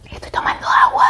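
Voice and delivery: whispered aside while drinking water. Real, not acted. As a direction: drop to a whisper, half off-mic.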